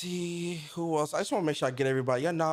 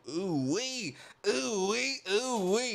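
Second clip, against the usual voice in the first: excited hype; 6 semitones higher, much slower than usual. Real, not acted. Hyping the beat.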